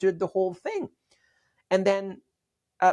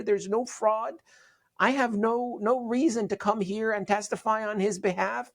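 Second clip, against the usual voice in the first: lightly imitated Georgia accent, higher voice; Southern twang; 5 semitones higher than usual. Lawyer's client retells a Georgia psychiatrist's testimony, light Southern twang. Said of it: "this Southern twang Georgian accent".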